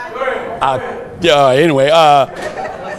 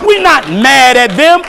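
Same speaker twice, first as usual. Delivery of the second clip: raised, emphatic preaching cry; fiery preaching; 3 semitones higher than usual. Real, not acted. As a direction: drive it home to the congregation. Preacher building to full force.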